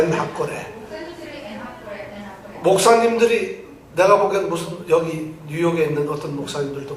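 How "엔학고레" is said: "엔학고레" as 엔, then 학고레 in one piece; correct word grouping. Shown as a demonstration. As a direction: model "엔학고레" with a break after 엔. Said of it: "이렇게". ("엔학고레"를 엔/학고레로 나눠 읽기)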